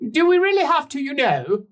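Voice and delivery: high, loud grumpy bargeman; Lucas voice. Acted. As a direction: whine it out as a put-upon captain.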